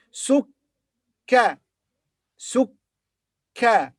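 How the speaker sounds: sukka with the k held long; sukka, lean on the doubled k. Shown as a demonstration. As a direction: double the kaf in sukka, hold it. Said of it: "because it's doubled".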